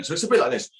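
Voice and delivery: blowing out hard. Shown as a demonstration. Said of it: "blow out as hard as you can".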